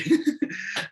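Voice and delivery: high-pitched real laugh. Real, not acted. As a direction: burst out laughing, pitched well up. Laughs after naming his number one.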